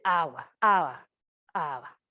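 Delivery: put-on child saying water. Shown as a demonstration. Toddler asking mother for water, lightly voiced. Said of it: "el niño dice, por ejemplo".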